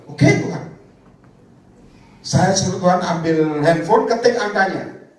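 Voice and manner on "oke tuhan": eager mock reply.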